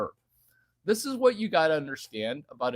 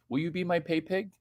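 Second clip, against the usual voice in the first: softer, fast mock taunt; 3 semitones higher, 7 dB quieter, faster than usual.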